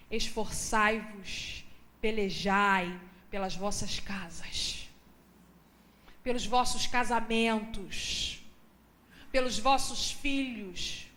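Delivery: slow, low prophetic declaration; solemn proclamation. Acted. Preacher proclaiming God's word to the families, slow and solemn. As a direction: pronounce it as the Lord's word.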